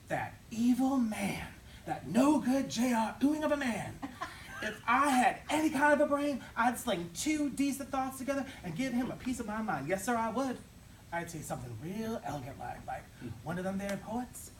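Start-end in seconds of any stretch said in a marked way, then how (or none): 0.1-10.6 higher, louder indignant fuming; indignant rant. Acted. Clerk fuming about the stingy boss, loud and indignant. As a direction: sputter with outrage at the boss.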